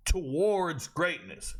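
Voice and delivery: slow, drawn-out "Towards greatness"; slow emphatic echo. Real, not acted. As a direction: savour "Towards greatness" slowly. Repeats phrase, second time slower.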